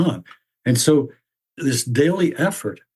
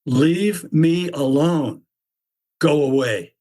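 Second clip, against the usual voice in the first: Sisyphus voice; 3 semitones higher, slower than usual. Acted. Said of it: "he shocks me by saying".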